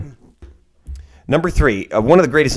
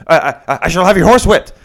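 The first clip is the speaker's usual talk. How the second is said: stammering, higher-pitched indignant threat; mock diatribe; 6 semitones higher than usual. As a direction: imitate a blustering, yelled threat. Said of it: "in his little, you know, diatribe".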